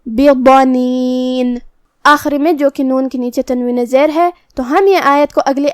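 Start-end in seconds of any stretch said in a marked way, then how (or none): 0.1-1.6 بضنین with the ض heavy, full-mouthed and drawn out slowly; heavy dad. Shown as a demonstration. A teacher showing students the heavy ض of بضنین. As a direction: give the ض in بضنین a thick, heavy sound. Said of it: "ہمیں اسے بھاری آواز میں بھی ادا کرنا".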